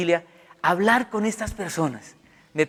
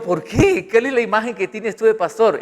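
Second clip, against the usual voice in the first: retold challenge; 6 semitones higher, 6 dB louder than usual.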